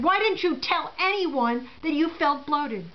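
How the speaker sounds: slow, mildly accusing nurse; a touch of a stern glare in the voice; glaring reproach. Retold or imitated. Nurse glaring at the patient from the machine, slow mild reproach. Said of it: "she glared at me and she said".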